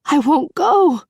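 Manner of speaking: a breathless cry of refusal; gasped. A narrator's reading. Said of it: "Beauty gasped".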